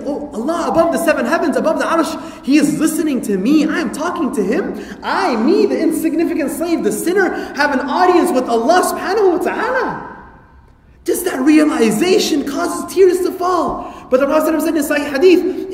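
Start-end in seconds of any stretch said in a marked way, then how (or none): 0.0-10.1 rising higher and higher in wonder; awed inner prayer voice. Retold or imitated. Worshipper marvelling that Allah listens, awed and rising. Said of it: "And then you're like". 11.0-13.9 slow, high, shouted preacher line; preaching at full force. Acted. Preacher stirring the congregation, slow and ringing.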